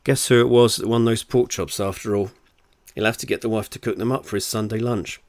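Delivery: steady, deliberate audiobook read; story narration. Acted. Author reads their novel to listeners, story narration. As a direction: tell it as a wry storyteller.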